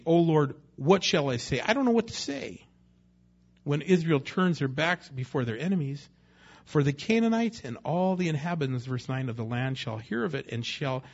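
loud, pleading cry to God; desperate prayer. Acted. Joshua after a defeat, crying out loudly to God.

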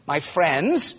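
the words "my friends" said gently; tender repeat. Acted. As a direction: linger lovingly on "my friends". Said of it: "this is the most loving man".

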